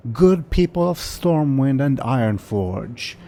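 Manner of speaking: high, slow grand gnome welcome; gnome announcer. Acted. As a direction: boom it out like a little gnome host. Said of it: "the voice of a gnome comes".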